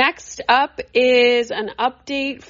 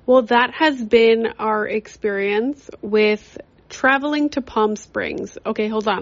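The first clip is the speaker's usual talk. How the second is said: talking with a retainer in; words slurred round a retainer; wearing a retainer. Real, not acted. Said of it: "I have my retainer in".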